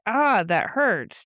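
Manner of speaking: lightly hammed-up hurt, stretched out; mock pained whine. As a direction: play at whining in pain. Acts out man grabbed by hair.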